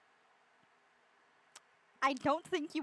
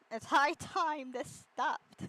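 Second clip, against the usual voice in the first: slow, drawn-out weary line; weary groan; 4 semitones higher, 3 dB louder, much slower than usual. Retold or imitated. Joking about waking up, slow and fed up. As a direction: drag it out like you're fed up with everything. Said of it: "Me whenever I wake up".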